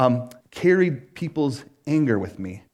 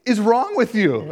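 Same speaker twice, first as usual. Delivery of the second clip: imitating wife; 7 semitones higher, 3 dB louder, slower than usual. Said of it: "she said".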